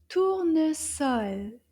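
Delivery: Tournesol slow, each syllable measured out; slow model word. Shown as a demonstration. Teacher modelling for children, Tournesol slow and deliberate. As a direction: say Tournesol slowly and clearly. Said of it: "say it together a little bit faster".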